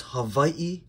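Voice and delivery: Hawaii with a v and a split ending; proper Hawaiian pronunciation of Hawaii. Shown as a demonstration. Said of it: "that's actually the proper way to say".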